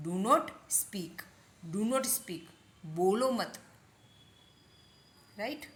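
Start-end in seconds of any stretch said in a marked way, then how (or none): 0.1-1.2 word by word, with a gap; slow model. Shown as a demonstration. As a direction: space out the words for learners. Slow take, then a quicker repeat. (शब्द अलग-अलग करके, धीरे-धीरे)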